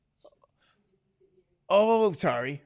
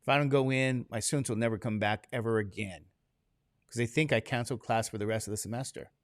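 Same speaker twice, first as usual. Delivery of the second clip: groggy inner voice; 6 semitones lower, 6 dB quieter than usual. Retold or imitated. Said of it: "I'm like".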